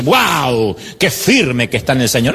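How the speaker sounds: gushing mock praise; mock admiration. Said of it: "uno dice". (admiración burlona de un feligrés)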